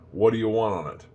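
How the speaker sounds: "What do you want on it" run together as "whaddaya wan-on-it"; sloppy speech. Shown as a demonstration. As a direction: slur "What do you want on it" into one casual blur. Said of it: "language has also gotten really sloppy".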